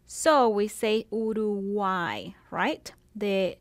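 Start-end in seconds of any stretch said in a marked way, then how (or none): 1.1-2.3 Uruguay ending in an i sound, u-ru-GUAI; final y as i. Shown as a demonstration. Teacher showing the y in Uruguay sounds like i. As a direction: land the y of Uruguay as i. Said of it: "it will sound like an I".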